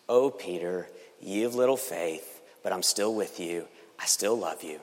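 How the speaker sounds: tender Jesus voice. Acted. Preacher voices Jesus comforting Peter.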